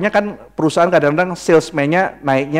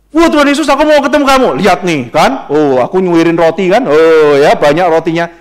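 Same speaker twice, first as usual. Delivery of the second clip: mock eager follower; 5 dB louder than usual. A self-serving follower gushing to Jesus, mock loud excitement. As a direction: ham up a greedy fan who only wants bread.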